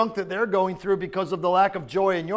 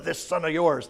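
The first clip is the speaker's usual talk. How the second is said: bitter; 3 semitones lower than usual. Acted. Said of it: "Do you hear the bitterness?".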